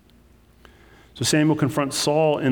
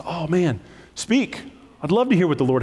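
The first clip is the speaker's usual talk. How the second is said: eager compliance; 4 semitones higher than usual. Acted. Acting Saul's reply to the prophet.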